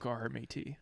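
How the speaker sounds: mock Scottish accent slipping into pirate; piratey Scottish attempt. Shown as a demonstration. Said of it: "That's more piratey".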